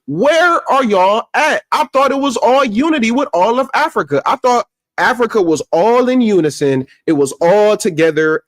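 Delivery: high, stretched, incredulous challenge; indignant calling out. Real, not acted. Vlogger demanding where the Pan-Africans are, indignant. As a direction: demand an answer, pitched well up.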